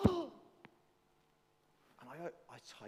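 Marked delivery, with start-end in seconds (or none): 0.1-0.3 gasp. Retold or imitated. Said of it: "And I suddenly went".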